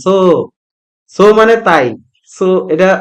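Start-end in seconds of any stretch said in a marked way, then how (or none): 0.1-0.1 "so" with a long, stretched o; drawn-out vowel. Shown as a demonstration. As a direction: hold the vowel of "so" as soo. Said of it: "টেনে পড়তে হবে".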